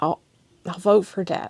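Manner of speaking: very soft, halting, barely above a murmur. Reading a story aloud, a man answering a question: very soft voice. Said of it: "he said very softly".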